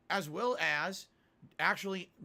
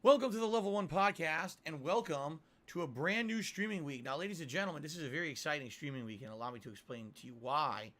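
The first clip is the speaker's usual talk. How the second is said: show host announcer. Acted. Podcast opening announcement.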